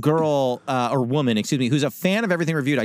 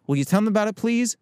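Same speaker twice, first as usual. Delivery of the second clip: pleading please; 7 semitones higher, slower than usual. Retold or imitated. Wife begging him to pass on the invite, rising high plea. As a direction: beg sweetly, then squeal it. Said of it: "And she goes".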